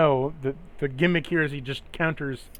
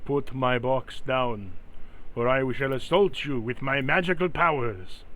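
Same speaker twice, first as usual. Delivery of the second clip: menacing creature. Acted. GM voices salamander threatening.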